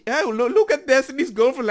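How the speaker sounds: mocking impression. Mocking the quiet ladies.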